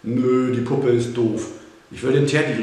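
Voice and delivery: put-on loud, insistent little girl; child calling out. A narrator's reading. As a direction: refuse loudly like a stubborn child. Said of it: "rief das Mädchen".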